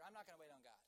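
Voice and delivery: deflated, matter-of-fact refusal; mildly resigned backtracking; giving up. Acted. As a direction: let the resolve drop away. Acted giving up three hours later.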